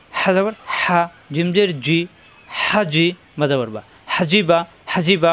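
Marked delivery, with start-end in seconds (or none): 4.2-5.3 হাজিবা with no vowel drawn out; short vowels. Shown as a demonstration. Teacher shows short harakat, হাজিবা without lingering. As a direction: keep each vowel of হাজিবা brief and even. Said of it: "হরকতের উচ্চারণ তাড়াতাড়ি".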